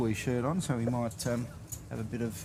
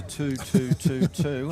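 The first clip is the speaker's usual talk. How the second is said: laughing count; 2 semitones higher, 6 dB louder, slower than usual. Retold or imitated. Mimicking lead habit, laughing.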